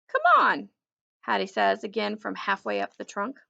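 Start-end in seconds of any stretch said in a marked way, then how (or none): 0.1-0.7 high, loud coaxing call. Acted. Girl calling to the dog from the tree trunk, coaxing. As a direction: call him up from halfway up the tree.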